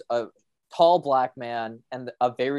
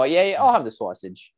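put-on Boston accent; 4 dB louder than usual. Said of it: "when I do a Boston accent".

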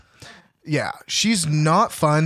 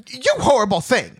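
mock outraged Dorothy; 10 semitones higher, 6 dB louder than usual. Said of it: "she says something like".

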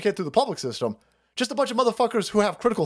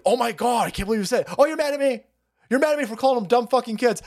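higher, mock-outraged whiny voice; mocking offended lefties; 6 semitones higher, faster than usual. Podcaster mocking offended lefties, high and outraged. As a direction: sneer it as a shocked, offended liberal.

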